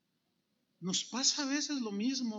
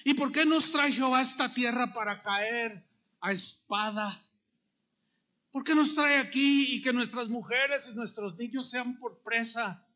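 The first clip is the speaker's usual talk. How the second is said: mildly raised, accusing protest; touch of indignant pleading; blaming God; 3 semitones higher, 4 dB louder than usual. Acted. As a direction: complain to God as the grumbling people. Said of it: "Ahora empiezan a culpar a Dios".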